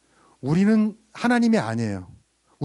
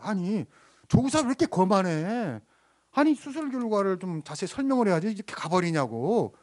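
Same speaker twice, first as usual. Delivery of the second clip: retold indignant father; 4 semitones higher than usual. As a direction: imitate a father griping to a nurse. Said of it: "또 화가 난 거예요".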